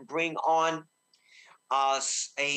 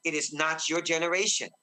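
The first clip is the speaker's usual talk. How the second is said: normal talking voice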